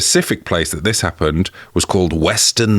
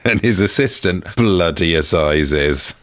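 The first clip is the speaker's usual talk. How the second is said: wrestling announcer; slower than usual. Acted. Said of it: "W W E wrestler".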